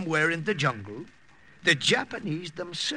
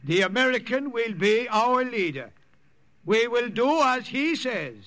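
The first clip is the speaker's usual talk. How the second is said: proclaiming; 8 semitones higher than usual. Acted. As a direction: announce the new leader with weight. Priest proclaiming to warriors.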